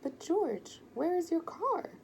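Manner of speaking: high, loud, wide-eyed question; can't believe there's no car; surprised again. A narrator's reading. Ben asks George about his car, amazed and loud.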